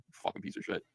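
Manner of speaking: hissed whisper, almost no voice; a bitter aside in a whisper; whispered insult. Real, not acted. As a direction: breathe the insult under your breath. Insulting under his breath.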